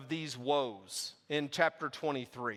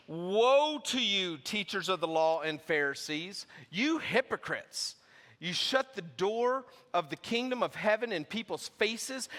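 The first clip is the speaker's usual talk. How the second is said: scripture reading; 2 semitones higher than usual. Acted. Preacher reading Jesus' woes to the congregation, forceful.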